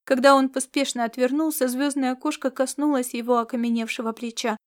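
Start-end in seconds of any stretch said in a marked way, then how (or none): none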